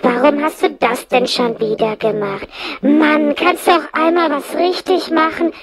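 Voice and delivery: lightly voiced nagging parent, slow start; a hint of weary parental scolding. Parents holding their children back, mildly scolding. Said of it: "dass halt eben Kinder immer wieder gebremst werden".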